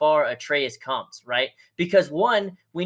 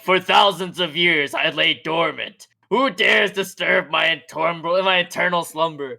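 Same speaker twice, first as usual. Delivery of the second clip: dragon voice. Acted. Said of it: "Thor was all like".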